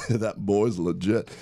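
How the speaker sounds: slow, amused Arkansas twang; echoed Arkansas accent. Pretend. Host repeating co-host's phrase, playful Arkansas accent. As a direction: echo the Arkansas phrase, drawn out.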